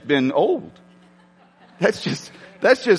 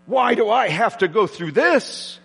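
whiny complaint; 2 semitones higher than usual. Retold or imitated. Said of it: "right to complain and whine".

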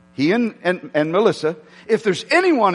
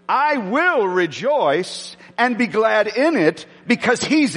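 declaration prayer. Shown as a demonstration. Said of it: "It's a decision declaration".

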